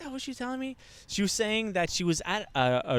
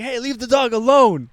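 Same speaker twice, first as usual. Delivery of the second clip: loud, high protest; calling out; 7 semitones higher, 8 dB louder than usual. Retold or imitated. Telling them to leave the dog be, acted loud protest. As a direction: call across the room, pitched up. Calls out at men yelling at dog.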